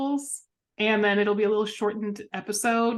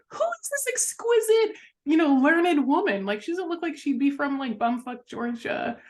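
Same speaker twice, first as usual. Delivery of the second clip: mock awed first impression; 6 semitones higher than usual. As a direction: gush like a starstruck fan, then drop the pitch. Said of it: "I was like".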